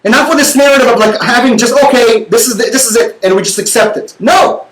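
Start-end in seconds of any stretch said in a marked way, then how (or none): 1.9-3.2 mock resignation. Mocking passive acceptance.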